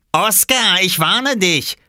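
high, loud threat; warning shout. A narrator's reading. Swimmer warning the boy holding clothes, loud threat. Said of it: "rief Robert".

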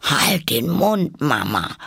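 put-on high, drawn-out young toad; cheeky. A narrator's reading. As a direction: sass your mother in a high voice. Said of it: "etwas naseweiß".

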